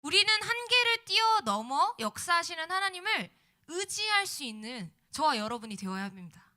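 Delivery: loud, rising preacher's exhortation; preaching. Acted. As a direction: preach it out to the congregation. Sermon climax, full-force preaching.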